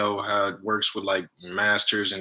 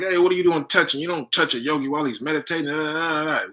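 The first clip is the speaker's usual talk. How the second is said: retold indignant scolding, higher-pitched; mad; 5 semitones higher, faster than usual. Master scolds the man who hugged him, mock angry. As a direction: imitate a master telling someone off. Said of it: "he got mad".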